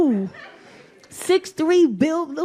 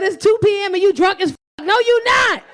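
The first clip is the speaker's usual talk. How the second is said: higher, loud, fast teasing accusation; son scolding; 4 semitones higher, 5 dB louder than usual. Retold or imitated. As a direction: call her out, laughing. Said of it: "He said".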